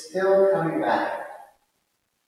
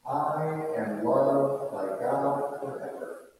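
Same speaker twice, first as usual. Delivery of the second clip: gentle and loving; slower than usual. Shown as a demonstration. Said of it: "Make your voice gentle and kind and loving".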